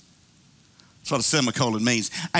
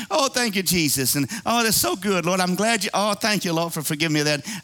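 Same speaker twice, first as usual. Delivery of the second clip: mock grateful thanks; 4 semitones higher than usual. Grateful believer voiced in sermon.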